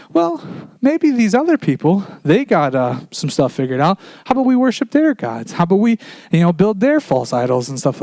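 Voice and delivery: mock tempted Israelites. Preacher voicing the straying Israelites, sly mock-tempted. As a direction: voice jumps high, wheedling "how about we". People tempted toward other gods.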